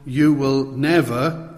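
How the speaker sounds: slow, firm refusal; measured but insistent refusal; emphatic refusal. Retold or imitated. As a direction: refuse emphatically, weighting NEVER. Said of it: "Peter makes this emphatic refusal".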